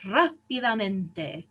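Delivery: "rápidamente" slowly as RA-pi-da-men-te; stress far back. Shown as a demonstration. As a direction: draw out the first syllable of "rápidamente". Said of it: "emphasize the fourth".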